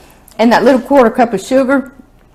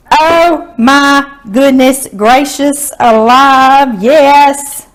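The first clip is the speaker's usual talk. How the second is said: excited gush; 4 semitones higher, 3 dB louder, much slower than usual. Real, not acted. Excited over the scones.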